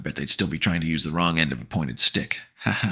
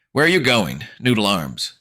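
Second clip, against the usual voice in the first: slow calm tone; 6 semitones higher, 6 dB louder than usual. Acted. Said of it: "spoke in a slow, calm tone".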